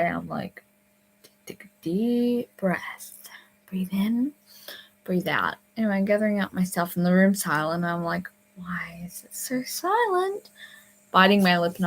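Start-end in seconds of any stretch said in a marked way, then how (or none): 1.5-5.6 slow, whispery self-soothing; holding back tears. Retold or imitated. Camper trying not to cry, self-soothing. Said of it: "trying not, really hard not to cry". 8.6-10.5 slow, higher whispered wondering; uneasy whisper. Retold or imitated. Camper gathering things in a silent room, uneasy whisper.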